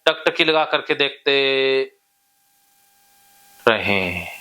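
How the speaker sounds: steady, repetitive chant-like suggestions, key words stretched; hypnotic induction. Real, not acted. Hypnotist telling a client the body is loose and heavy, hypnotic drone. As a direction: guide them insistently down toward sleep. Leads hypnosis toward deep sleep.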